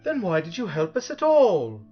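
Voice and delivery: angry shout. A narrator's reading. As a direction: shout the question angrily. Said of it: "shouted Milo angrily".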